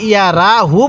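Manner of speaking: রা said with an open "aa" vowel, not "ro"; mistaken reading. Shown as a demonstration. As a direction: quote the wrong ইয়া রা হু with light "raa". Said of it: "পড়াটা সহি হবে না". (ভুল করে রা আ-কার দিয়ে পড়া)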